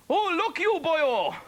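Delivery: a quick mock Welsh exclamation; Welsh accent. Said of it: "That's Welsh".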